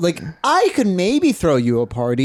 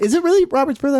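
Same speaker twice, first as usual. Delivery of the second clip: quoting Izzy; 10 semitones higher, faster than usual. Retold or imitated. Izzy quoted asking, high.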